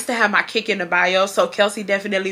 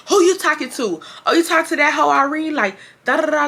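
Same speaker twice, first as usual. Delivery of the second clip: higher taunting little-sister voice; mock a nosy brat butting into a call; bratty sister taunt; 6 semitones higher than usual. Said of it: "she just was too much".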